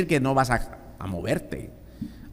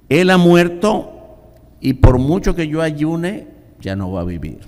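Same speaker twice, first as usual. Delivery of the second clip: emphatic preaching; 5 semitones higher, 5 dB louder than usual. Acted. Preacher stressing David's words.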